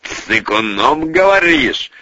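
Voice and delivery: slow, drawn-out question rising at the end; savouring echo. Acted. The boss repeats the insult, savouring it slowly. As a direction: relish the word as you repeat it. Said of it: "Смакуя это определение, переспросил".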